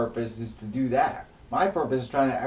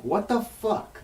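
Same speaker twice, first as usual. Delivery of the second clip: much higher, slow incredulous cry; outraged disbelief; 12 semitones higher, 5 dB louder, slower than usual. Real, not acted. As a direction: let the outrage crack upward. Outraged at dad's ban.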